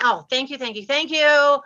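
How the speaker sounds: gleeful thanks. Retold or imitated. Taking the pink slip from the boss, gleefully thankful. Gleefully accepting her layoff notice.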